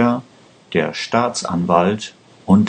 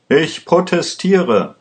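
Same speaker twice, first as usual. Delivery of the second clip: higher-pitched cry of protest; narrated shout, only lightly raised; mild protesting cry; 9 semitones higher than usual. A narrator's reading. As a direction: call out an objection, pitched well up. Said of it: "schrie Vega".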